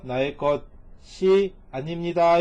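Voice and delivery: slow translation. Shown as a demonstration. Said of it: "이런 뜻이죠".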